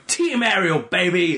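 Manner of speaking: high-pitched mock fan chant; Chuck's cheering. Friend imitates Chuck cheering for Ariel, high mock cheer. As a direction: imitate a big Philly guy rooting for his princess. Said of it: "And he's going".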